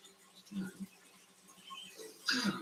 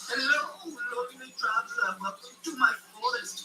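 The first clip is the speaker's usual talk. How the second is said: high-pitched make-believe forest dweller; put-on high storybook voice; forest creature voice; 10 semitones higher than usual. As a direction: pitch it way up to greet a traveler. Plays a forest figure greeting travelers.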